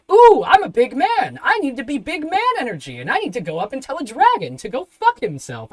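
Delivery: high mock bravado; mocking imitation. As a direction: mimic his big talk in an exaggerated high voice. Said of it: "getting out of the cart and going".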